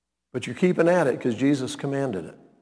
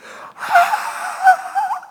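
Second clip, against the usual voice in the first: mock terrified scream. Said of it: "people scream in terror".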